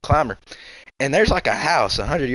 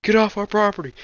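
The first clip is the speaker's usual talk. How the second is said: retold yell; 6 semitones higher than usual. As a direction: mimic them hollering at you. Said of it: "They were screaming at us".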